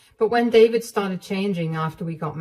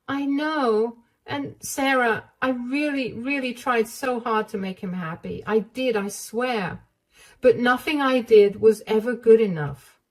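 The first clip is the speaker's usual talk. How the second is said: higher, pleading voice; higher, hesitant confiding voice; frightened young wife; 5 semitones higher than usual. Acted. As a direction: beg her not to be angry. Wife insisting she tried.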